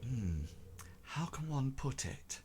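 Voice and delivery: secretive whisper with long, searching pauses; Tobias. Acted. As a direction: whisper haltingly so others can't overhear. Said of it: "he doesn't want them to hear".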